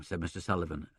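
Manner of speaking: ordinary delivery, nothing marked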